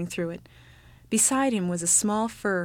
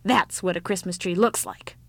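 understated irritation; irritated. Acted. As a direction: point it out a bit crossly. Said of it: "cried with some irritation".

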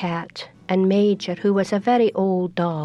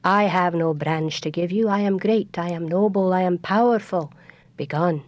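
haughty oak tree. Acted. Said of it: "the oak tree looked down and said".

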